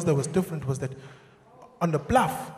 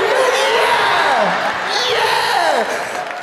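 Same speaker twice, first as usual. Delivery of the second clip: high loud cheering yeahs; crowd cheer; 10 semitones higher, 4 dB louder than usual. Retold or imitated. Comic imitating crowds celebrating in the streets, loud cheer.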